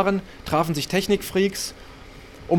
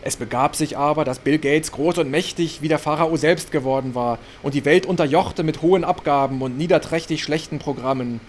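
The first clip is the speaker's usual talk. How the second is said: mock biblical sermon. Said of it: "im Predigtton vor".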